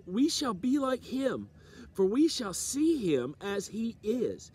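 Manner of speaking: preacher reciting scripture, stretching key phrases; scripture reading. Real, not acted. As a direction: read the verses out with measured emphasis.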